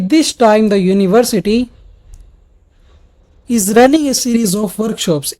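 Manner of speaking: slow, with a long pause before the rest; long pauses mid-sentence. Shown as a demonstration. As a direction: break the sentence with a lengthy pause. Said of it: "इतना ज़्यादा lengthy pause". (वाक्य के बीच लंबा ठहराव)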